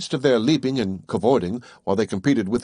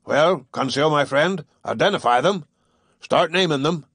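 exclaimed; 4 semitones higher than usual. Acted. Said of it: "Ned Land exclaimed".

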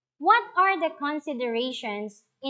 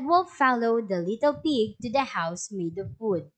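story narration; 2 semitones lower than usual. A narrator's reading. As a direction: clear storybook reading to a class. Teacher reads story aloud.

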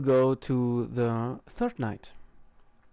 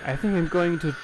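shaken; slower than usual. Real, not acted. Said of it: "my heart".

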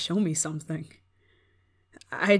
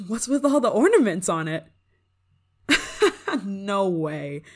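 delighted laughter; 2 semitones higher, 6 dB louder than usual. Acted. Laughing at the ornament tree.

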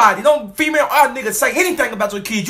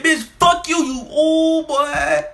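mock yell; 5 semitones higher, much slower than usual. Telling viewers what he would yell back, angry. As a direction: spit it back, drawn out at the end. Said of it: "Bitch, I said".

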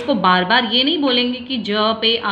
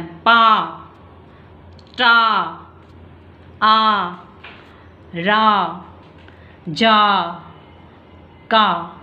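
wide open mouth; much slower than usual. Shown as a demonstration. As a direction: open the mouth fully and call each syllable out. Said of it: "पूरा हमें मुंह खोल के बोलना है".

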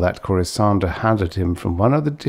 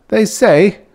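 conspiratorial; 14 semitones higher, 7 dB louder than usual. Acted. Uncle relishes the rumour.

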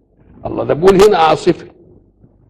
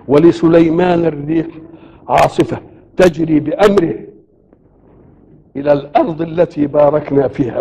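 Quran recitation. Acted. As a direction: draw out each word of the verse.

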